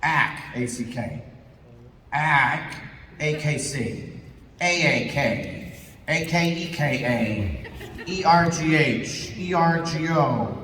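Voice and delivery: slow letter-by-letter spelling; spelling out grunts. Shown as a demonstration. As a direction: read the letters like a bored actor. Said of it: "they'll write 'em out".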